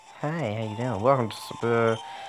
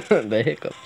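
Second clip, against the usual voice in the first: laughing; 3 semitones higher, 3 dB louder than usual. Real, not acted. Laughs at his hiccups.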